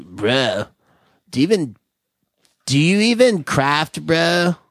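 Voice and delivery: lightly voiced dude asking about craft beer; gym bro. Shown as a demonstration. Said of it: "the bro guy's a little deeper".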